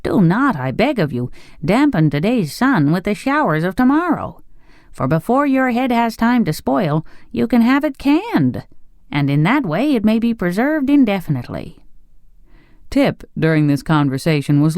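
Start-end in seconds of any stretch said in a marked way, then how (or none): 0.0-11.8 higher-pitched, lilting reassurance; kindly, sympathetic. A narrator's reading. Emperor reassuring Pumpkinhead about spoiling, kindly and sympathetic. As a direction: soothe the worrier with a lifted voice. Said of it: "in a kindly, sympathetic tone".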